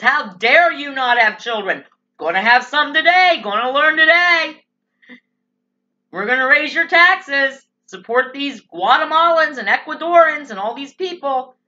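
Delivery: lightly hammed-up scolding politician; mock Democrats. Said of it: "The Democrats say".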